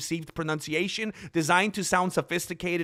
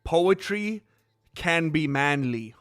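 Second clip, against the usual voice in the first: measured mock-serious recitation; poem recital; slower than usual. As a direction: recite it as the opening line of a poem. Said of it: "my next poem, it starts with".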